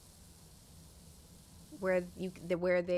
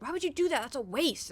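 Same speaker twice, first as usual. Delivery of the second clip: high, indignant mock brother; incredulous brother; 4 semitones higher than usual. Brother scolding her over selling bugs, mock indignant. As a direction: scoff at the wasted bugs. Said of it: "He's like".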